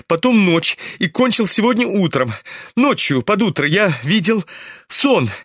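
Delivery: high-pitched, insistent confession; agitated Ippolit. Acted. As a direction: voice an excitable character well above your own pitch. (взволнованный Ипполит, высокий голос)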